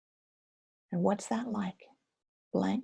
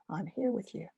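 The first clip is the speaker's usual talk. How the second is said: gentle reassurance; 4 dB quieter than usual. Shown as a demonstration. Teacher demonstrating kind words to a scared inner part. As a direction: hold your scared feelings kindly. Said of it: "what do we know is true".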